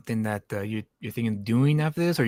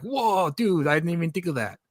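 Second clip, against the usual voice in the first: mock amazement; 4 semitones higher than usual. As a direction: play an impressed reader's surprise. Imagining the writer's stunned reaction.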